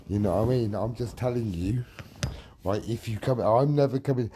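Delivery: loud, furious rebuttal; real anger, yelling accusations; angry shouting. Real, not acted. Shouting back in an argument.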